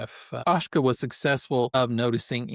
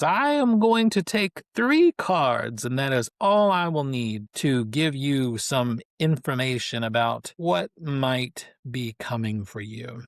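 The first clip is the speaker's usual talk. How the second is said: Mama Megwin, fortune teller. Acted. Fortune teller opening a card reading for the captain, lightly theatrical.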